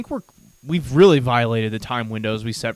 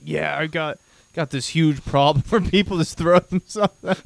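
lightly hammed-up humblebrag with a laugh; mock self-promotion; 4 semitones higher than usual. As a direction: brag in jest, pitch lifted. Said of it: "we're both just like".

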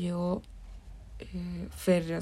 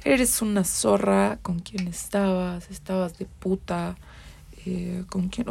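retold angry yelling; slower than usual. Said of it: "me empieza a gritonear".

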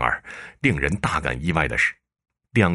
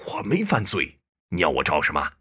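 sharp retort. Acted. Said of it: "陈县令也厉声回击".

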